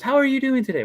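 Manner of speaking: high put-on princess accent; Princess Aurora. Princess making small talk with diners, terrible put-on accent. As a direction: chirp it as a make-believe princess. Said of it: "my accents are gonna be terrible".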